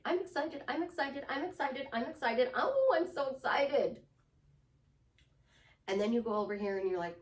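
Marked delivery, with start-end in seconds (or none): 0.0-4.0 pumped-up excitement. Shown as a demonstration. Coach showing an instant mood shift, excited. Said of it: "And you start doing this".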